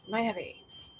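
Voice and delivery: unvoiced whisper; whispered aside. Real, not acted. A joking aside about the stray cat, whispered. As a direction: whisper it so the cat won't hear.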